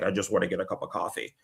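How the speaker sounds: muttering softly, a bit fast; mild Connery mutter. Retold or imitated. Actor grumbles he just wants coffee, muttered softly. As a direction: grumble under the breath for coffee. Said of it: "and he's like".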